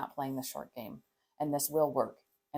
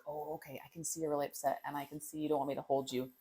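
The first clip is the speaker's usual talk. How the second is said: soft calm parent; 6 dB quieter, faster than usual. Shown as a demonstration. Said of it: "use language like".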